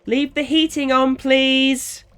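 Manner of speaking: a mother laying down the rule; stern demand. Acted. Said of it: "Georgina sternly demanded".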